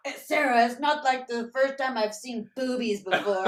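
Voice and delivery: loud teasing jab; teasing retort. Retold or imitated. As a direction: tease her, loud and casual.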